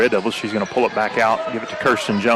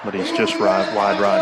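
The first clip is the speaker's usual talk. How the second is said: hushed golf announcer voice; golf commentator. Acted. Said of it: "That was my golf commentator voice".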